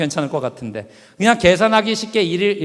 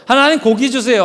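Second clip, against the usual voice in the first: whiny pleading, a touch louder; begging for meat; 4 semitones higher, 4 dB louder than usual. Acted. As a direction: nag God like a child. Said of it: "계속 졸르기 시작했어요".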